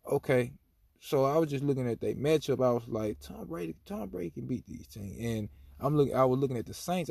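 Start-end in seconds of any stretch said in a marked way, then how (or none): 3.2-5.2 soft, murmured as if thinking to himself; half-voiced private conviction; hushed inner thought. A fan quietly sizing up the matchup, hushed inner thought.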